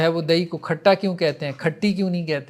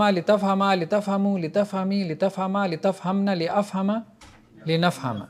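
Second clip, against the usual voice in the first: list-like classroom recitation of verb forms; conjugation drill recitation; slower than usual. Shown as a demonstration. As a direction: rattle through the paradigm in an even rhythm. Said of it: "گردان کریں گے".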